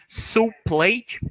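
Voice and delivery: "Soup plate" as one smooth unit, no pause between the words; one block. Shown as a demonstration. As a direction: join "Soup plate" into a single sound block. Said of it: "tudo junto". ("Soup plate" como um único bloco de som)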